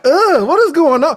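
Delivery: high loud exasperated ugh; loud disgusted groan. Retold or imitated. The viewer reacts to her news with loud disgust. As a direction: blurt it out appalled. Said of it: "I'm like".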